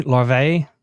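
"larvae" stretched to "lar-vay", a weak French accent; half-hearted French accent on "larvae", ending in "vay"; French accent attempt. Shown as a demonstration. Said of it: "say larvae and a little bit slower in a French accent".

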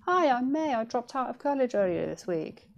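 practice greeting. Shown as a demonstration. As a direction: rehearse a smooth hello. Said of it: "what are you gonna say?".

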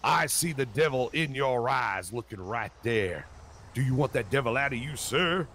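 measured, theatrical sermon question; revival preacher. Pretend. Reverend sees devil in man's eyes, measured preaching. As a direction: confront the sinner in a preacher's cadence.

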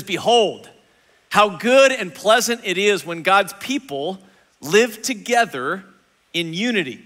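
slow, measured reading of the psalm; scripture reading. Acted. Pastor reading the psalm to the congregation, measured and solemn. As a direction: read the verse out slowly and deliberately.

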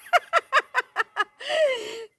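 bright high burst of laughter. Real, not acted. Woman laughing about her wild village habits, high laugh. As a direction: laugh at yourself.

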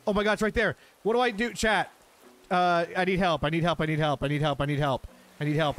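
loud, urgent begging for help; panicking pleas for help. Real, not acted. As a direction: beg chat for help in real panic. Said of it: "I'm panicking".

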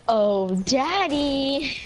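half-hearted scream at normal volume; mock scream. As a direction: imitate a kid crying out, stretched slowly. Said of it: "his little brother screams".

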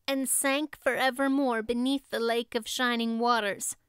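lightly voiced girl, rapt and dreamy; a hint of a young girl spinning her story; dreamy girl confessing. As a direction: tell the tale as if lost in its beauty. Anne's long confession.

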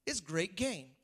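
slow, solemn verse; preacher reading First Timothy slowly; scripture reading. Acted. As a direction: read it slowly and gravely. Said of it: "it says".

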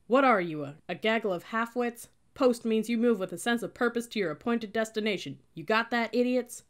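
loud, high, scornful lecture; exasperated berating. A narrator's reading. Cadet to recruits who didn't move, berating loudly. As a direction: chew out the halfwits.

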